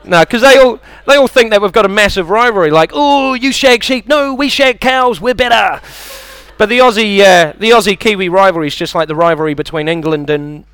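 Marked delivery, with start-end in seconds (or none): 2.9-5.8 high, drawn-out taunting; silly pitched-up squabble; mock bickering. Comic acts out Aussie-Kiwi rivalry, high mock bickering.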